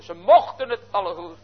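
usual speaking voice

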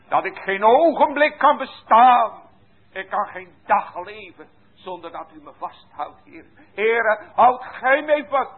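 impassioned prayer. Acted. Sinner begging the Lord to hold him, pleading. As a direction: cry out to God for help.

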